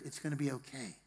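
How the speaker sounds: soft, gentle reassurance; tender comforting. Acted. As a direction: comfort a crying child, softly. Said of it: "you're comforting them".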